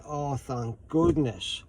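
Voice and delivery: imitating her drawn-out relief; slow, mildly acted sigh of relief; relieved. Old lady finding what she searched for, relieved. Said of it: "let out an audible sigh of relief".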